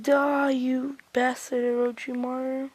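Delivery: slow, drawn-out threat, not shouted; mock battle cry. He attacks Orochimaru, slow drawn-out mock battle cry.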